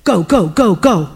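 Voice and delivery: punchy, separate beats on each go; urgent command. Retold or imitated. The Lord sending her after the fleeing woman, urgent command. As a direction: urge it on in quick repeated bursts. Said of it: "like that".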